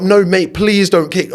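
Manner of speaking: hammed-up pleading with the cleaner. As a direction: beg like your safe place is at stake. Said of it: "pleading with him".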